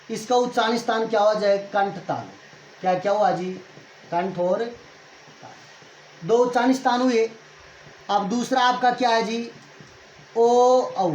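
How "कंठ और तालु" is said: drawn-out answer. Shown as a demonstration. Teacher draws out answer.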